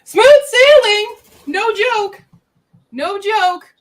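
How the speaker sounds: high, loud, slow triumphant shout; high thrilled cry; excited exclaim. Real, not acted. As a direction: announce it like a big win. Excited announcement of book result.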